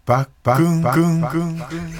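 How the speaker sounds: high announcer call with voiced echoes fading out; mock-serious echo imitation. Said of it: "真面目にやります".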